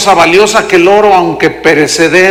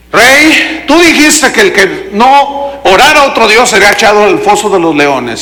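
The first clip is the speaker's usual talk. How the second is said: indignant accusation; 2 semitones higher than usual. Retold or imitated. Jealous governors reporting Daniel to the king, indignant accusation. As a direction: confront the king, voice lifted.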